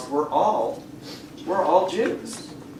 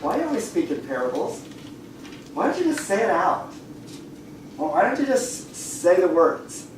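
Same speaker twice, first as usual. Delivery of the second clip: puzzled disciples; 3 semitones higher, faster than usual. Acted. Disciples asking Jesus why he speaks in parables, mildly puzzled. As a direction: lightly act out quick, baffled questions. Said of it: "And then the disciples say".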